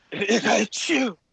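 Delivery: high, slow laughing mock line; laughing sarcasm. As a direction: laugh through a sarcastic jab.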